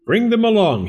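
"Bring them along" in a high lilting voice, "them" stressed; high quick call. A narrator's reading. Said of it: "he said".

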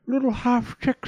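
high storybook call for help; pleading wind. A narrator's reading. Trapped wind calling to Little Half Chick, pleading.

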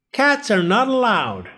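high, loud stern shout; shouting lifeguard. A narrator's reading. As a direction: bark the rule at them. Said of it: "the lifeguard shouted".

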